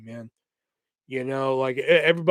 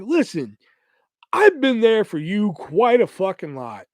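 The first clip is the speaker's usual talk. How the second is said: a touch of indignant scolding, pitched up; 5 semitones higher, 3 dB louder than usual. Retold or imitated. Telling his friend off for ditching him, mildly indignant. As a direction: remind her pointedly what you did for her. Confronting friend over loyalty.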